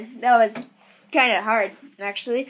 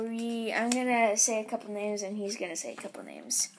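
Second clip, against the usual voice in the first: whispering; 5 dB quieter than usual. Real, not acted. Quiet aside before shout-outs.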